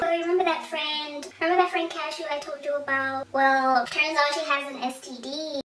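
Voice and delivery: high, small pleading voice; acted high-pitched excuse-making; mock-innocent fibbing. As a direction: spin the lie in a high, innocent voice. Acts out her lie to dad.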